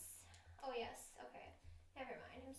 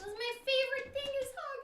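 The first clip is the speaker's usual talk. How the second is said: emphatic; 10 semitones higher, 6 dB louder than usual. Real, not acted. Sad over no hugs.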